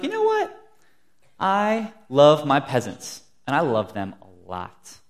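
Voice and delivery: lightly voiced king, loud and emphatic; a hint of a proclaiming monarch; king's declaration. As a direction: declare it grandly like a king, drawn out. Acting out the loving king.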